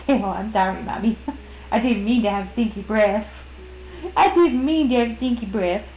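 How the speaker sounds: lightly voiced sorry dog. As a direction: voice the dog apologizing. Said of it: "that's just what Rory sounds like".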